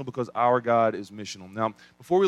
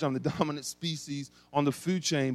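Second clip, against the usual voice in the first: amused recall; 4 dB quieter than usual. Real, not acted.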